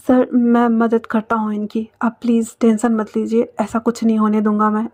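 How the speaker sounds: calm reassurance. Acted. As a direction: settle their worry, gently and evenly. Offers help, says don't worry.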